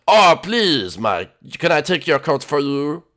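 mock-French fancy host; attempted French accent. Host getting the door, put-on French accent. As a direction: play the courtly host with fake French accent. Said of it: "try French".

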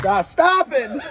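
laughing plea. Real, not acted. Burning mouth begging it to stop, laughing.

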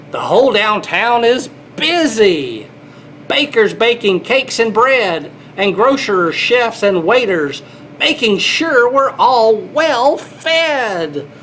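lilting picture-book read-aloud; storybook voice for little kids; reading to children. Acted.

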